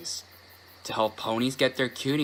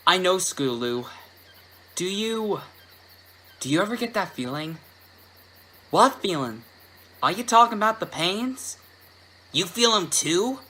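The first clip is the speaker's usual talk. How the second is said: higher, anxious filly voice; worried young filly; 7 semitones higher than usual. Acted. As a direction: voice a scared little filly.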